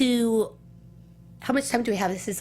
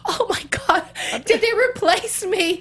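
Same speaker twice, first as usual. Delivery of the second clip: higher, louder, slowed alarmed cry; mock-panicked disbelief, pitched way up; retold panic; 9 semitones higher, 4 dB louder than usual. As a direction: replay the moment of dread. Panic at being replaced.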